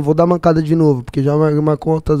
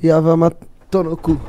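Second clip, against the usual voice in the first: backwards speech; 3 semitones lower, 3 dB quieter than usual. Shown as a demonstration. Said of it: "ao contrário".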